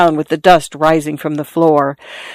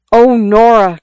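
high, louder anguished cry; cried out; 5 semitones higher, 4 dB louder than usual. A narrator's reading. Boy crying out to the girl after the killing. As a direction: call her name in distress. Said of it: "cried the boy".

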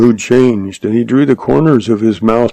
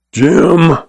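higher-pitched hail; calling out; 7 semitones higher, 3 dB louder than usual. A narrator's reading. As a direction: call across the barn for someone. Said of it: "Shorty mouthed".

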